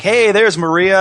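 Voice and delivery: loud, high mock-excited holler; excited Ric Flair. Host imitating wrestler seeing colleague, loud excited call. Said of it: "he gets all excited".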